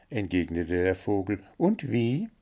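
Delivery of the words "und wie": high, chirpy bird voice listing its complaints; little blue bird, demanding. A narrator's reading. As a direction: play the greedy little bird, pitched up high.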